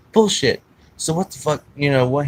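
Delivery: high, loud retort; angry disbelieving dad. Retold or imitated. Dad rejecting his son's lie about the dog, angry.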